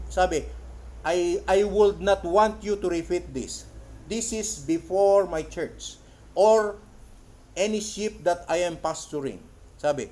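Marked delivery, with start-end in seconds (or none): 1.0-9.4 slow, emphatic preaching read; preacher's quote reading. Acted. Preacher quoting a testimony to the congregation, slow and emphatic. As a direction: read it out slowly, punching key words.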